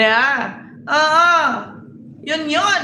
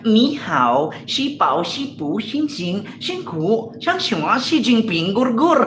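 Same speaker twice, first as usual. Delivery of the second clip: mock Chinese; slower than usual. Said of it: "Pag sa Chinese naman".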